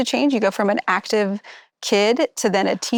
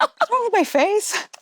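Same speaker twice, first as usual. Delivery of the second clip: higher, slower, rising in disbelief; mock surprise; 11 semitones higher than usual. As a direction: draw it out like you can't believe it. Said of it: "And I was like".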